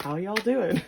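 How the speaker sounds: put-on breezy Southern accent walking into a room; Southern greeting. Crush entering a room, mild Southern accent. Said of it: "Maybe they're from the South".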